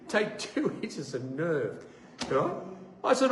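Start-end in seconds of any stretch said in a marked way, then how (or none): none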